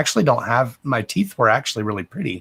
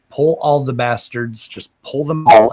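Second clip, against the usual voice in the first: louder, exasperated outburst inside a retold thought; fed-up yell; 6 dB louder than usual. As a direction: blurt it out, done with it all. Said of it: "and I was like".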